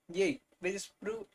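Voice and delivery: stiff, mechanical read-aloud; robot reading. Shown as a demonstration. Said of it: "I read that like a robot".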